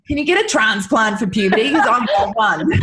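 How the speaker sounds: put-on loud, laughing groan of a fed-up boy; mock teen groan. Mother voicing her son's mock complaint about puberty, loud and laughing. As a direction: ham up a weary preteen. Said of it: "Noah's like".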